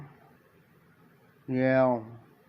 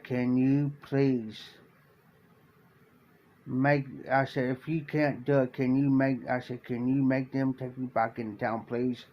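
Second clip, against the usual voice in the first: quiet plea; 3 semitones lower, 5 dB quieter than usual. Retold or imitated. Pleading with the sheriff for help.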